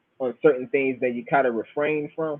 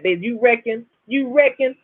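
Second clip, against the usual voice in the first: high Bahamian catchphrase; imitated Bahamian granddad, pitched up; Basil Riley; 8 semitones higher than usual. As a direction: ask it high in a Bahamian accent. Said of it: "he talked like that".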